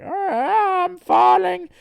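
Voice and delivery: high, hammed-up falling wail; loud cartoon cry of alarm; Sonichu. Sonichu plummets mid-fight, wailing theatrically. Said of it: "Sonichu is like".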